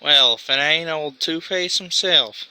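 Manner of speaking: laid-back goblin, amused and unbothered; lightly voiced goblin rogue. Goblin greets villain.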